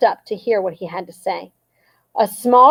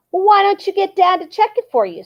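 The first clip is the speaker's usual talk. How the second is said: suggesting; 10 semitones higher than usual. A narrator's reading. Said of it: "suggested Annie".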